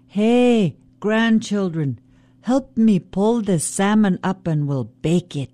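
rally the grandchildren as Raven; Raven calling. Acted. Raven calls the birds.

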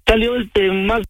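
upset and insistent, on the verge of tears; tearful. Real, not acted. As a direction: plead in disbelief, close to crying. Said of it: "No llores, Omar".

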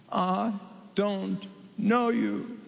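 very slow, cold refusal; the bridegroom's slow, final rejection; stern bridegroom. Acted. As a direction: draw each word out like a closing door. Bridegroom rejects the foolish ones.

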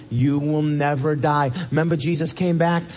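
ordinary talk

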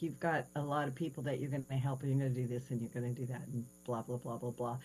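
soft, fast run-through trailing off; mumbled message. Retold or imitated. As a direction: skim the speech. Jesus's message, retold.

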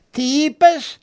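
sharp high cry of disbelief; jolted, as if the floor gave way; shocked disbelief. A narrator's reading. Sally hearing Steve resigned, high shocked gasp.

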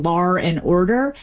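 "lar and order" with an R linking lar to and; R slipped in at the end of lar. Shown as a demonstration. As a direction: link lar onto and with an R. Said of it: "linking R, which is an extra R".

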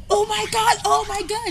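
high, loud mock scream; retold screaming. Imitating screamed voice messages about the trade, mock yell. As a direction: imitate a friend screaming in disbelief. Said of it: "he's screaming".

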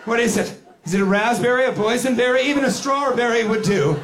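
hammed-up desperate eagerness; desperate hope. Acts desperate drinker hoping for fruit.

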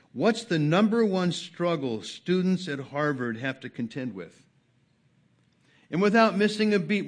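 loud, high preaching at full force; a pastor urging his congregation, in loud preaching; fiery preaching. Acted. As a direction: drive it home from the pulpit, loudly.

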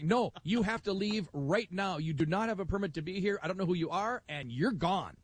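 a mild mock of a furious official; fuming official. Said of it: "he was just fuming".

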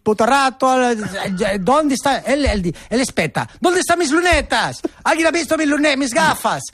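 flustered Pope voice. Retold or imitated. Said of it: "porque lui, lui las perde".

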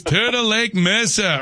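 put-on Bronx accent with the R's dropped. Caller's old announcer can't get out the town name, Bronx accent. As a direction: say "Turtle Lake Mesa" in a thick Bronx accent. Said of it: "if you put that in the Bronx accent".

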